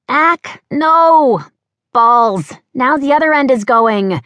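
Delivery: high, loud panicked outcry; alarmed yelling. Acted. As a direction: shriek as the tent caves in. Tent collapsing on the girl.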